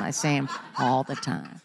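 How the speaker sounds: repeated through a laugh. Real, not acted. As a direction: laugh it out in disbelief. Repeats line, second time laughing.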